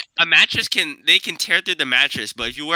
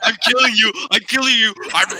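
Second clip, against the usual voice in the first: shouty zombie taunt, higher; zombie impression; 6 semitones higher than usual. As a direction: play the zombie lunging at friends. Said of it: "Brian makes such a good zombie impression".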